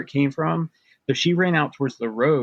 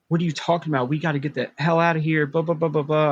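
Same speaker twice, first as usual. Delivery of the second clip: mildly imitated freak-out at raised pitch; retold panicked freak-out; 4 semitones higher, faster than usual. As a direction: replay your panicked rant, trailing into blah-blahs. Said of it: "I'm, like, freaking out, panicking".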